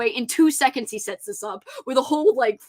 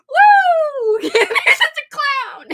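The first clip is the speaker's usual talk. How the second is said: high, loud, breaking into laughter; laughing hard; 8 dB louder, much slower than usual. Real, not acted. Cracking up over the song, high laughing squeal. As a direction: squeal through helpless laughter. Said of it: "I don't know why I'm crying".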